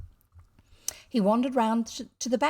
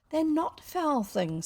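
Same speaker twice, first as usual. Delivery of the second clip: put-on higher, slow, stubborn boy; dogged protest; 7 semitones higher, slower than usual. A narrator's reading. Son contradicting his father about sweets, dogged. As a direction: insist doggedly like a child. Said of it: "said William doggedly".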